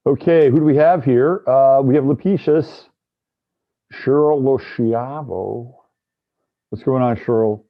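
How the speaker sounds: muffled, like through a wall; bad mic, sound muffled and dull. Real, not acted. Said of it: "Your voice sounds different, muffled".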